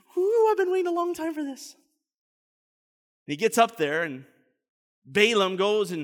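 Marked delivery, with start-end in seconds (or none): 0.2-1.8 mock very high, rushed, giddy, eager excitement. Picturing Balak waiting eagerly like a child, acting out Balak's excitement. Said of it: "He's just so excited".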